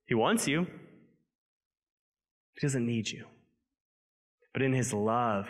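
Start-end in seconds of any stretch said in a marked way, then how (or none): 2.5-3.3 "He doesn't need you" with "doesn't" pressed softly; stress on doesn't. Acted. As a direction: lean on "doesn't" quietly. Repeated contrast, soft.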